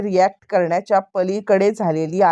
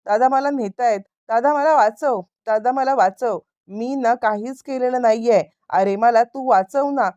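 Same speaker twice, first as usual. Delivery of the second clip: higher-pitched, mildly frantic begging; panicky pleading; 4 semitones higher than usual. Retold or imitated. Arrested man begs his brother to save him, mildly panicky pleading. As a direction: act out a rattled plea for rescue. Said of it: "यावरती तो आता बिथरलाय".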